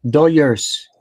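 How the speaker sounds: "Dodgers" with a y sound for the dg; Doyers pronunciation. Shown as a demonstration. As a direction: correct them with "Dodgers" said "Doyers". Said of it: "you gotta pronounce it right".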